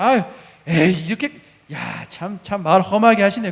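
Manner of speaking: acted offended complaint; mock disgruntled reaction; upset grumble. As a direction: grumble as if hurt by harsh words. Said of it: "저 같으면은 속상해서".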